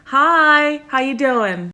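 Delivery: high, drawn-out sugary hello; put-on high greeting. Comic answering someone who said sir, put-on high voice. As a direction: pitch the hello way up.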